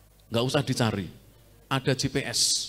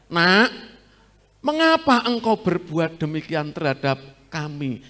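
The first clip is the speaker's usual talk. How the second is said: gentle reproach; 5 dB louder than usual. Shown as a demonstration. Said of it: "dengan intonasi kenceng atau lembut".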